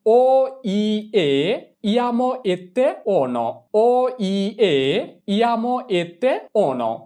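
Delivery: endings spelled out very slowly; slow ending drill. Shown as a demonstration. Teacher drilling verb endings, very slow. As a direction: drag each ending out for the class. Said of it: "ending গুলো হলো".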